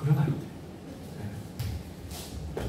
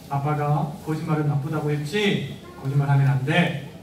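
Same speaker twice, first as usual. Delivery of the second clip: stern and serious; 4 semitones lower than usual. Shown as a demonstration. Dad sternly warning his child, mildly stern. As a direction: lay it down firmly. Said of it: "정색하면서".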